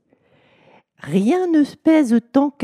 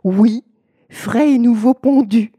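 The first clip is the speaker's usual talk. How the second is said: emphatic insistence; 4 semitones higher, 6 dB louder than usual. Acted. Husband insisting on fresh egg.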